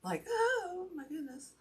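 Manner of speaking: breathless from the stairs; panting a little between words; out of breath. Real, not acted. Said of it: "So now I'm out of breath".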